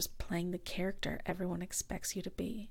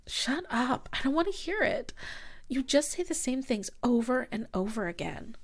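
louder, higher, exasperated; fed-up outburst; 3 semitones higher, 3 dB louder than usual. Acted. Girlfriend telling her ex to shut up, exasperated. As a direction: cut them off in rising irritation. Quarrel, cuts ex off.

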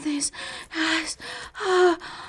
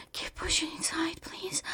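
soft breathy whisper; 12 dB quieter than usual. Acted. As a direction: whisper it close to the ear. Whispered plea.

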